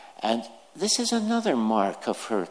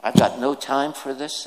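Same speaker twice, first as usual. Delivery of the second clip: irritated. Shown as a demonstration. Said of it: "Is that the tone?".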